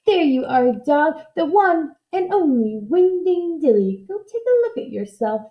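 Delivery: a hint of a proud little witch; lightly voiced witch, proud. Witch showing the dog his new body, proudly. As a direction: present it like a magic trick.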